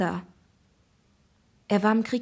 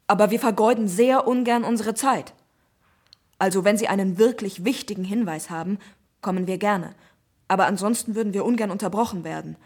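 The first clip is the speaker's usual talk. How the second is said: stern policeman; 4 dB louder than usual. Acted. Policeman lecturing on phone.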